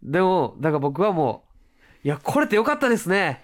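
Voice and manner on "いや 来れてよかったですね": sarcastic welcome. Retold or imitated. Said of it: "逆に嫌味みたいな".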